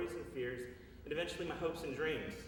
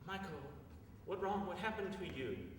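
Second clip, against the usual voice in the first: mother's broken English; 5 semitones higher, 3 dB quieter than usual. Retold or imitated. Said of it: "in her broken English".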